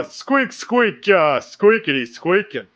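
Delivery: high squeaky critter chatter; rubbery high squeaky toy. Retold or imitated. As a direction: squeak like a tiny squirrel. Kronk squirrel-speak bit.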